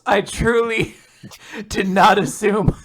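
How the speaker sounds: loud, high, amused mockery; laughing disbelief. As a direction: tease incredulously through laughs. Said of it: "laughing her fucking ass off".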